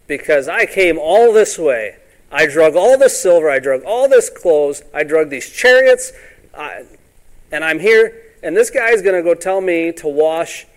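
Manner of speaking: mock-offended Naaman ranting; indignant rant. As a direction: huff about all the trouble taken. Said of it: "was wroth".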